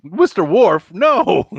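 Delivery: high, loud mock refusal; acted starship captain overruling his officer; exasperated captain. Acting captain's reply to Worf.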